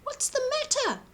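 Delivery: high, gentle caring question; concerned giant. A narrator's reading. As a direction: ask kindly, voice lifted high. George asks the fox.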